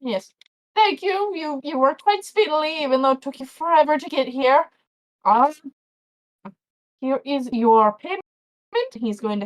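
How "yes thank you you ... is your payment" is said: farmer voice. Acted. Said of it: "he goes".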